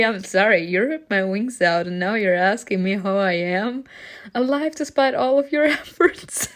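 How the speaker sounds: loud, biting sarcasm; sarcastic. Acted. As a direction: snap it back sarcastically, laughing at the end. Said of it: "snapped sarcastically".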